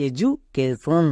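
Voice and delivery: এডুকেশন drawn out very slowly with a j sound; correct education. Shown as a demonstration. Teacher summing up for students, very slow clear pronunciation. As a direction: slowly model এডুকেশন, ju not du. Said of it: "এটা কি দাঁড়ালো".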